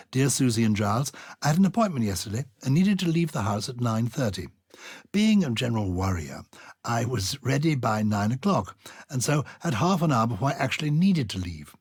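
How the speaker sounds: reading a listener's letter aloud, lightly performed. Acted. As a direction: read the letter out to the audience.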